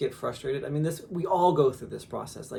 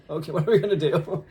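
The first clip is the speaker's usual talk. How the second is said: said through a laugh; real laughter recalling the setback; 3 semitones higher, 6 dB louder than usual. Real, not acted. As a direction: laugh while asking it.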